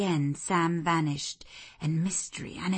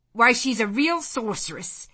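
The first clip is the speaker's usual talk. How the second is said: put-on higher, louder young gentleman's exclamation; excited cry; 6 semitones higher, 7 dB louder than usual. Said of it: "cried Frederick Lynn".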